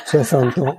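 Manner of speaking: laughing. Real, not acted. Teasing older students about hours.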